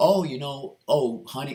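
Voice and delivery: mock, very loud, high, half-laughing teasing voice. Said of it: "sort of laughing".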